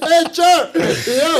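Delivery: high, loud comic reply; hammed-up yelled answer; mock screaming. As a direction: shout back far too eagerly. Screamed answer to whispered request.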